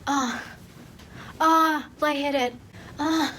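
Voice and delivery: mock swooning, rising into high cries; hammed-up faint with spaced-out gasps of "oh"; dramatic. Main character about to faint, dramatic. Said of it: "she is so dramatic".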